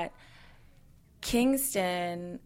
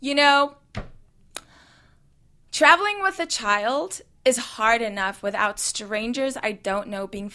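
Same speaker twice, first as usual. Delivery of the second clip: raised voice, toned-down retelling of yelling; retold outburst; 3 dB louder than usual. Mother re-enacting telling off a rude passenger, moderately raised voice. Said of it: "at the top of my voice".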